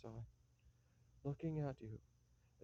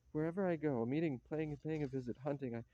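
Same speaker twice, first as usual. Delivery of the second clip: loud, bitter rant of self-loathing; angry outburst; 4 dB louder than usual. Acted. Ivanov to his fiancée, ranting angrily at himself. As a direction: hurl each word out in fury. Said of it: "I'm choking with anger".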